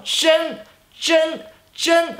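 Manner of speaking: 真 held high and level in first tone. Shown as a demonstration. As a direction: say 真 on a high, steady pitch. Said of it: "first tone".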